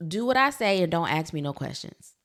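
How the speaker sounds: loud no-nonsense parent command; bossy parent. Retold or imitated. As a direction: snap the order like an old-school parent. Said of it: "we've been trained to be like".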